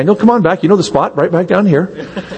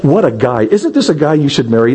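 high, laughing, hammed-up gushing bride; giddy mock bride; 5 semitones higher than usual. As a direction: squeal like a bride who sees no wrong. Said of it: "she's just telling".

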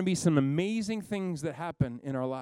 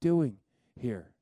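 a lower, hushed God asking again; still small voice; 4 semitones lower than usual. Acted. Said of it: "this still small voice comes again and says".

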